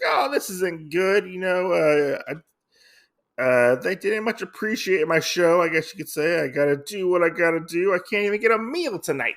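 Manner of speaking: a hint of a fox girl fretting about money; retold Kitsune voice. Vlogger voices Kitsune complaining.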